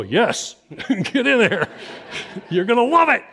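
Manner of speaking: high, laughing push; laughing encouragement. Retold or imitated. Parents urging their son into Sunday school, laughing. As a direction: laugh while nudging him in. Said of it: "Mom and Dad go".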